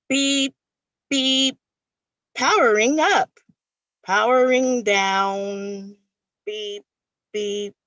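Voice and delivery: beeping robot, powering up and down. Pretend. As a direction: play a malfunctioning robot. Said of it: "So I'm glad you guys can't see me do these expressions".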